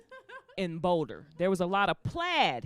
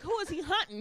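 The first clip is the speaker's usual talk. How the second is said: put-on high question; 8 semitones higher than usual. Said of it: "I was like".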